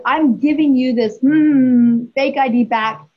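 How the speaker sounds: retold scolding with a hummed-out curse; self-censored swearing. Mother handing back her son's fake ID, retold with censored cursing. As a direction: hum in place of the swear word. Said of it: "I said it with terms".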